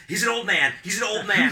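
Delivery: high, loud imitation of someone breaking up a fight; retold pleading intervention. Imitating ex-wife jumping between two fighters, urgent cry. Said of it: "jumped between us".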